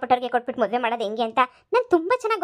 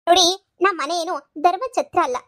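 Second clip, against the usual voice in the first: higher, louder and slow, scolding hard; indignant scolding; 4 semitones higher, 4 dB louder than usual. Acted. Mother-in-law telling the visitor off, indignant and loud. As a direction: lay down the law, offended.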